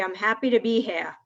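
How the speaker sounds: put-on speaking in a Boston accent. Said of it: "pull out my Boston accent".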